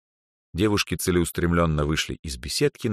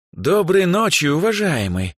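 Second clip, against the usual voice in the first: put-on higher, louder bright girl's greeting; smiling girl greets the producer; 13 semitones higher, 5 dB louder than usual. A narrator's reading. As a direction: greet him with a smile. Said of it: "улыбнувшись, произнесла Эльза".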